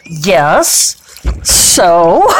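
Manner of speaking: petulant yes then a mock cry on so; hammed-up crying whine; mock sob. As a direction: whimper it like a sulking child. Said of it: "And I'm like".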